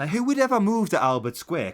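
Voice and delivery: loud incredulous rant. Real, not acted. Mocking the soap's setting, loud exasperated outburst. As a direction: shout it in disbelief. Ranting about soap setting.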